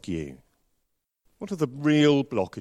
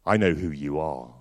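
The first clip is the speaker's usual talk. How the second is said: 1 eerie phone voice; 10 semitones lower, 4 dB quieter than usual. Retold or imitated. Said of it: "there was a voice that just said".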